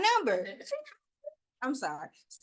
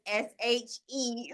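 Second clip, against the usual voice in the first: slow spelling; much slower than usual. Shown as a demonstration. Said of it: "I will spell my name for you".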